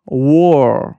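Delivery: war said "wor", with English w and an aw vowel; correct English pronunciation. Shown as a demonstration. Teacher models the new word, correct English pronunciation. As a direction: say war to rhyme with "door". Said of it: "تلفظ صحیحش".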